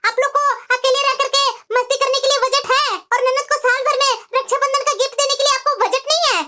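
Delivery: irritated sister-in-law picking a quarrel; angry complaint. Acted. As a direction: scold with sustained, insistent indignation. ननद भाभी से gift पर झगड़ती. (नाराज़ ननद का ताना)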